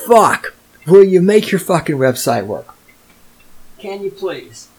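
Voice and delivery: fed-up yell at the website makers, rising on Fuck; ranting at a broken website, exasperated; exasperated outburst. Retold or imitated. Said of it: "I'm like".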